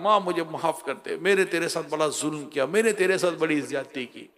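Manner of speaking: a quiet, remorseful sob of sorry; weeping plea. Retold or imitated. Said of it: "वो रोए रहा है".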